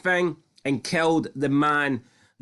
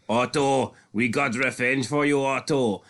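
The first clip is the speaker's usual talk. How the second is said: put-on German accent. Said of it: "I'm doing a German accent".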